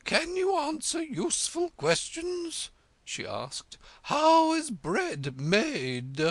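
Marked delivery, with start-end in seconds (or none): 0.0-2.7 high, loud demanding queen; imperious Red Queen. Acted. Red Queen quizzing Alice, high and demanding. 4.0-6.2 high, loud demanding queen; imperious Red Queen. Acted. Red Queen quizzing Alice, high and demanding.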